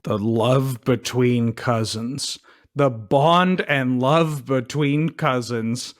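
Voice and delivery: slow, tender, lingering. Shown as a demonstration. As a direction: savor each word sweetly. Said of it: "get through this bit as beautifully as".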